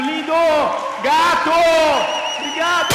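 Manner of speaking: shrill-high mock fan screams, very loud; imitating screaming women. Speaker mimics women cheering him on stage, mock screaming. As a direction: scream like adoring fans at a concert. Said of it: "mulherada gritando".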